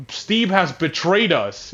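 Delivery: mock-dramatic villainess accusation; evil lady. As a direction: proclaim it like a hammed-up evil queen. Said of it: "the evil lady, she's like".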